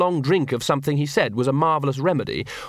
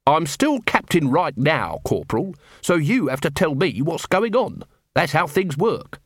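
a slow, firm captain pulling rank; stern captain; 4 semitones higher than usual. Acted. Captain Vimes pulling rank on Carrot, slow and firm. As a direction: lay down the law, slowly and firmly.

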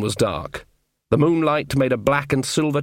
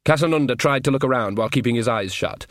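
usual speaking voice

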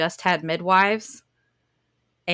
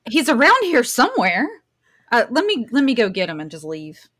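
mock helpfulness; 5 semitones higher, 6 dB louder than usual. Playing along with police asking for man.

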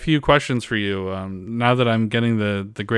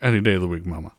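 Impression of a famous singer. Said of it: "So this is a singer".

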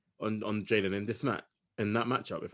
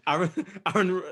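ordinary delivery

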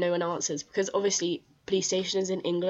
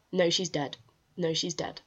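imitating a casual, unbothered answer; blunt, matter-of-fact. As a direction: repeat it simply, like a routine correction. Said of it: "so just blunt and matter of fact".

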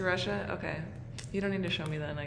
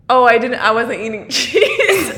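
laughing retold denial; 4 dB louder than usual. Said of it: "I was like".

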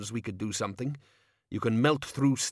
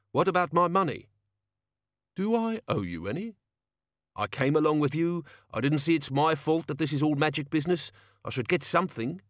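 put-on gruff old locksmith; 6 semitones higher than usual. Locksmith demanding his pay.

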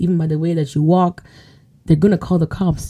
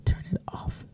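whispered warning; 17 dB quieter than usual. Acted. Whispered ending.

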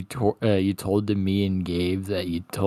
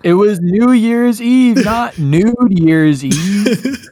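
laughing; 12 semitones higher, 9 dB louder than usual. Real, not acted. Joke about the party photo.

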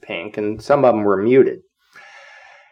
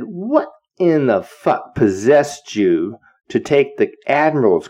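slow, drawn-out reprimand; retold telling-off with key words stretched; incredulous scolding; 3 semitones higher, slower than usual. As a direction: demand an explanation, word by heavy word. Officer scolding the prankster, acted out.

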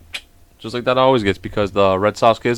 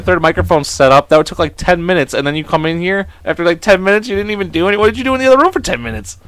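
higher, fast playful complaint; exasperated rant; 6 semitones higher than usual. Real, not acted. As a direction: rant in mock outrage. Complaining at wife.

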